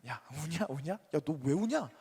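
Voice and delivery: mock-teasing question, lightly acted; lightly mocking, rising at the very end; teasing peers. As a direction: imitate army buddies needling someone for crying. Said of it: "동기들이 놀립니다".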